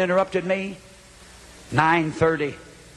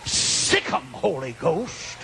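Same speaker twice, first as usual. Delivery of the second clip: retold command; 2 semitones lower, much slower than usual. Retold command in his prayer.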